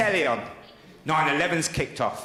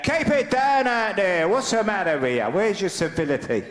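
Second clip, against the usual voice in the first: hungover shout. Retold or imitated. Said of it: "I shouted out".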